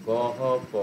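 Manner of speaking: "গহ প" broken off slowly, syllable by syllable; split syllables. Shown as a demonstration. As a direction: say "গহ প" in separate pieces, then stop. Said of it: "split করে করে বলতে পারো". ("গহ প" অক্ষর ভেঙে ভেঙে)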